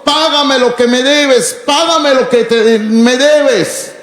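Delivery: a hint of a creditor choking his debtor; mild harsh demand. Voicing the merciless servant's demand. (exigencia dura de un acreedor, algo más aguda)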